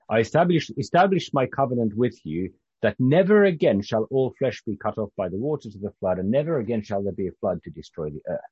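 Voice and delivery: measured, lifted reading voice; scripture reading. A narrator's reading. Preacher reading God's covenant with Noah, scripture reading. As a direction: read the verses out to a congregation. Reads scripture aloud to congregation.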